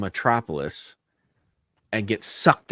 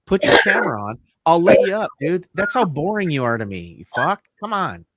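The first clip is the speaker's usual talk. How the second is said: raised-pitch, fed-up goading; exasperated rant; 5 semitones higher than usual. Real, not acted. Host berates William for keeping the camera off, exasperated. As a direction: needle them in open exasperation.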